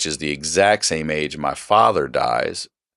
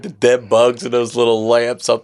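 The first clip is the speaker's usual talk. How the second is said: despairing inner voice; 7 semitones higher than usual. Retold or imitated. Retelling to host his thought while lying in pain, strained and high. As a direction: cry it out like a man in pain. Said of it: "I'm like".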